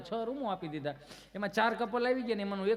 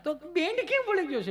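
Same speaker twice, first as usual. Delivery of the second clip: high worried question; 11 semitones higher, 4 dB louder than usual. Retold or imitated. Worried parent asks again.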